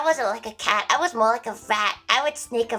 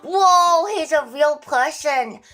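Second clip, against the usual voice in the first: surprised whoa; 4 semitones higher, 5 dB louder, slower than usual. Retold or imitated. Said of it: "I was like".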